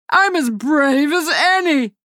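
high, slow, indignant boast; indignant cry. Acted. Hook insisting on his courage, high indignant cry. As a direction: insist you're brave. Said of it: "Hook cried".

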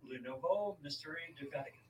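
clumsy attempt at a French accent; horrible French accent. Real, not acted. Host reads co-host a French book title, bad French accent. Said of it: "That was a horrible accent".

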